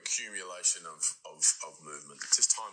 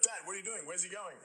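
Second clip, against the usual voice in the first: put-on much higher, softer little-girl voice; daughter's voice; 12 semitones higher, 5 dB quieter than usual. Father quoting his daughter asking about the tattoo, childlike. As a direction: voice the worried young daughter.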